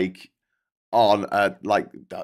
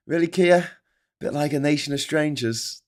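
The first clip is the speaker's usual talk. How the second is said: a dry, raised sarcastic jab; 3 semitones higher, 3 dB louder than usual. Real, not acted. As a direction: needle him with disbelief. Sarcastic jab at Prime Minister.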